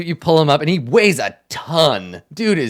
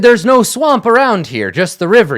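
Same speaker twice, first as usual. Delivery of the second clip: scornful retort; 7 semitones higher, 6 dB louder than usual. Acted. Captain retelling how he scoffed at his guards, loud. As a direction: sneer it down at the guards.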